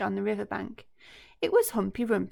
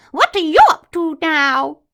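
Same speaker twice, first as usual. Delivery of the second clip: much higher, louder cheeky greeting; chirpy monkey; 8 semitones higher, 15 dB louder than usual. Acted. Mugglewump greeting the crocodile, high and chirpy.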